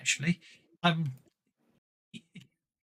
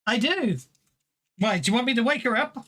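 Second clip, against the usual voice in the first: higher, lilting attempt at Irish; amateur Irish accent, pitched up; bad Irish accent; 6 semitones higher, faster than usual. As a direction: answer in a poorly done Irish accent. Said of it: "I can't do Irish accents very well".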